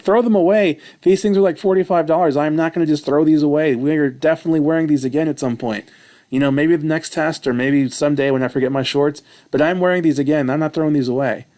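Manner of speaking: retold indignant protest, voice up high; indignant outburst. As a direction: refuse loudly, outraged at wasting money. Refusing to throw pants away.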